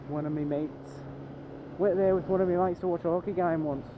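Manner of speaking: playful mock Aussie-or-British accent; put-on accent. Vlogger replaying own line for fun, mock Aussie-or-British accent. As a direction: redo it in a put-on Commonwealth accent, pitched a touch up.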